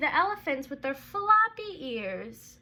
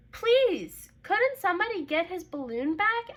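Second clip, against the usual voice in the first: higher, louder begging plea; pleading mother; 5 semitones higher, 5 dB louder than usual. Acted. Mother asking the crowd to rescue the balloon, pleading. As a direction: beg for help for her son. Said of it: "asked the mother".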